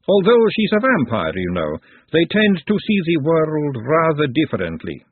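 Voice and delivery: high-pitched start, easing down; composed lady, explaining. Acted. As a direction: explain with airy poise. Woman explains her ladyship.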